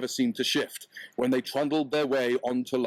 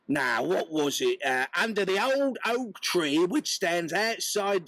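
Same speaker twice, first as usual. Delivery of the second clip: much higher, indignant Cockney wife; wife laying down the law; 5 semitones higher than usual. Acted. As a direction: put her foot down on the husband. Wife tells the dream.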